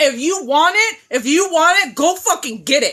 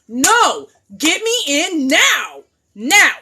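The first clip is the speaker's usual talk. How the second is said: slow, louder demand; 3 semitones higher, 3 dB louder, much slower than usual. Real, not acted. Demanding an appointment, forceful slow demand. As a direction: insist on now.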